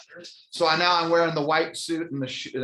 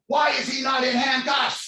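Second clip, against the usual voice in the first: high, booming outraged shout; screaming sheriff; 11 semitones higher, 4 dB louder than usual. Retold or imitated. Sheriff screaming at deputy over missing handcuffs, outraged shout. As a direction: scream it across the station. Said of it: "screams and sc-, says".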